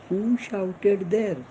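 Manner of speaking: very slow, each word stretched; slow model question. Shown as a demonstration. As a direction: spell it out slowly for the pupils. Teacher models English question. (शिक्षक प्रश्न पुन्हा शिकवतो, अतिशय हळू)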